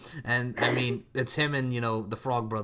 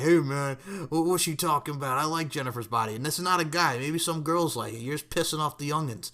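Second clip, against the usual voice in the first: put-on guy's voice, slightly higher; lightly hammed-up guy impression; guy version; 3 semitones higher than usual. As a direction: do a casual mock guy. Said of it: "I was doing a guy version".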